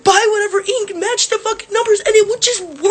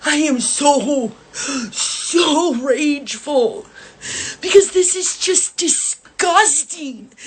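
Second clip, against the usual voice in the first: slow, drawn-out, tearful fury; tearful rage; 4 semitones lower, much slower than usual. Real, not acted. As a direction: drag the words out, close to crying with anger. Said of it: "I may be crying right now, ... so rageful".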